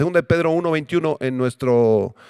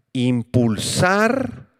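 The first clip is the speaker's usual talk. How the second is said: drawn out; much slower than usual. Shown as a demonstration. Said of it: "que significa".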